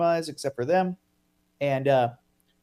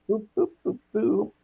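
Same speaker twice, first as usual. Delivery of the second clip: playful boops; 5 semitones higher than usual. Pretend. Host stalls while picking a location.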